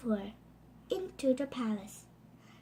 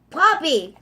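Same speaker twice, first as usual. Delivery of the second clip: fierce warning; 3 semitones higher, 11 dB louder than usual. Acted. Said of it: "said her father fiercely".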